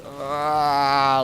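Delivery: long drawn-out groan, acted; delirious tired groan. Gamer retelling being exhausted at the door, acted tired groan. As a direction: groan like a brain giving up. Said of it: "I'm kinda deliriously tired".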